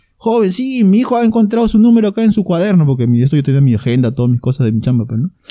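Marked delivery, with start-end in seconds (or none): 0.2-2.9 put-on high, loud old man voice. Retelling a phone call from the taxi driver: imitating an old man speaking loudly. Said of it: "y hablaba fuerte, pues, entonces que era viejito".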